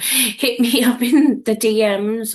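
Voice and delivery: laughing through a self-correction; real amused laugh. Real, not acted. Coach correcting "shoot me up" to viewers, laughing. Laughs at own slip of phrase.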